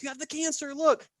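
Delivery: high, squeaky put-on voice; hammed-up falsetto astonishment; mock alarm. Nurse holding it before the person, mock-alarmed squeak. Nurse showing patient, acted again.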